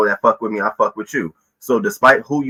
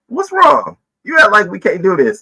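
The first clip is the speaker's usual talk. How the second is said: quoted friend; 8 semitones higher than usual. Retold or imitated. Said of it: "she sort of brought me back".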